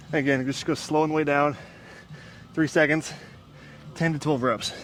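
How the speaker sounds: out of breath mid workout; after a workout. Real, not acted. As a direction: talk through heavy breathing. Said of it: "very hard to talk and work out at the same time".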